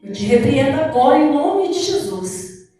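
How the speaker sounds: firm, slow command to the devil; commanding rebuke. Retold or imitated. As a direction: order the demon out with authority. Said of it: "eu ergui minha mão e falei". (repreensão firme e lenta)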